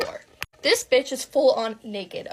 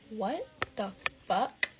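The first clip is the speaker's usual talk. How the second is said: slow, drawn-out disbelief; stunned disbelief; 5 dB quieter, slower than usual. Retold or imitated. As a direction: stretch each word out in acted shock. Retold shock at hearing the voice.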